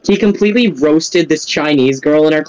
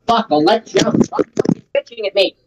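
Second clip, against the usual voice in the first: loud sharp voice; 4 semitones higher than usual. Real, not acted. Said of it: "No need to yell".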